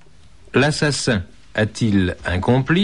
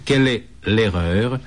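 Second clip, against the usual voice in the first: slow, spaced out. Shown as a demonstration. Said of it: "Je répète".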